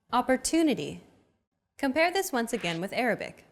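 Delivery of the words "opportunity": "Opportunity" with a longer, stressed "tu"; stress on third syllable. Shown as a demonstration. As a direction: lean on the "tu" of "Opportunity". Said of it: "The stressed syllable to in opportunity".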